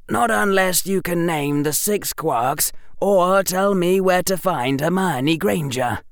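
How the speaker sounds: put-on young boy muffled by scarf. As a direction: speak through a wrapped scarf. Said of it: "in a voice only slightly muffled by the scarf".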